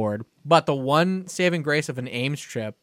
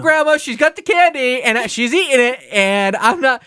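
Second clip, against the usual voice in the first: put-on higher, louder whiny child; whiny kid voice; 10 semitones higher, 8 dB louder than usual. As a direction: plead like an upset toddler. Toddler answering grandma.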